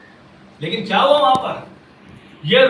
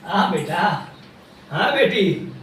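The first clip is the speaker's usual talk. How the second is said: tender answer; 6 semitones lower, 5 dB quieter than usual. Acted. Lord turns, answers his child tenderly.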